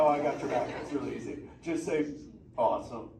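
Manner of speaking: laid-back surfer dude turtle, stoked. Acted. Turtle Crush greets the humans in the tank, surfer voice.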